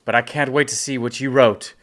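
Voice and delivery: firm, projected instruction called from above; yelling down. Acted. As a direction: call the order down to someone below. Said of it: "I'm gonna yell down to him".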